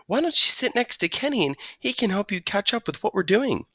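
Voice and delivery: a hint of a kind schoolteacher; teacher seating a new kid. Teacher voiced in story.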